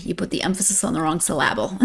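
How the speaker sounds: quick joke line, "emphasis" and "syllable" stressed on the second syllable; dad's joke saying with "syllable" deliberately mis-stressed; emphasis on wrong syllable. Retold or imitated. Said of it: "My dad used to say".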